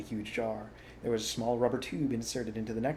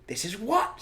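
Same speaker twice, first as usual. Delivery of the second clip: high, louder, rising question; puzzled question; 11 semitones higher, 6 dB louder than usual. A narrator's reading. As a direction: ask what on earth he means. Puzzled badger asks.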